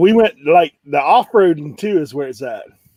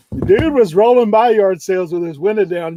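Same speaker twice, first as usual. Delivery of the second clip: normal talking voice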